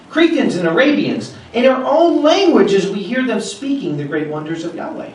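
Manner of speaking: preacher reading Acts aloud to his flock, proclaiming; scripture reading. Acted. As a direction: proclaim the passage to the congregation.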